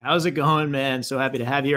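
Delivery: ordinary talk, nothing marked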